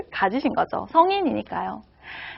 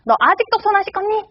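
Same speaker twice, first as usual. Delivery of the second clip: higher, exasperated mom voice; mother scolding her child over unwashed hands, higher and exasperated; 8 semitones higher, faster than usual. Retold or imitated. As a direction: play the nagging mother catching the child out. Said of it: "결정적으로 이런 얘기를 합니다".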